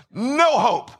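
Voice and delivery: mocking enemy voice, the two words leaned on; preacher voicing the devil's mild mockery; enemy's taunt. Shown as a demonstration. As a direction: sneer it like the enemy whispering in your ear.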